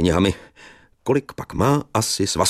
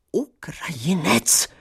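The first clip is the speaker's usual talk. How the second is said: puzzled whisper; 11 semitones higher, slower than usual. Acted. Narrator's puzzled repeat.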